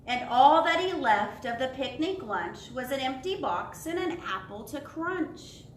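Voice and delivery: sing-song storybook reading; reading to children. Acted. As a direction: read it to little ones, savouring each phrase. Reads picture book to children.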